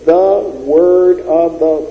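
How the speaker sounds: drawn out word by word, "The word of the"; slow deliberate phrase. Shown as a demonstration. Preacher counting out the little words, very slow. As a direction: spell out "The word of the" very slowly. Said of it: "those four little words".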